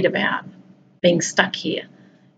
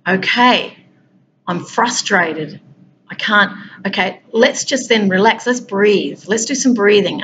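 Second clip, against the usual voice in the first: calming self-talk. Shown as a demonstration. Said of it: "you have to redirect that".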